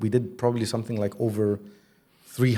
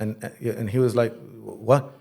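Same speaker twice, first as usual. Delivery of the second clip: ordinary talk, nothing marked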